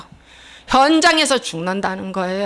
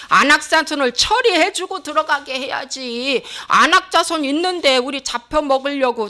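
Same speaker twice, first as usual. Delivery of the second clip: resentful complaining; 2 semitones higher than usual. Acted. Israelites protesting being sent into Canaan, mock grumbling. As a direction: complain to God as the grumbling people. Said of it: "매면서 원망했어요".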